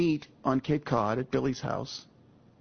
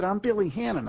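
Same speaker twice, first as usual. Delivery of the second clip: put-on Boston accent; 6 semitones higher than usual. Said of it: "he does it in his accent".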